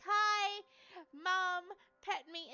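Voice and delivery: high, loud mock cat greeting; imitating a pet begging for attention; cat's voice. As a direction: play a needy cat greeting its mom. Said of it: "He walked over like".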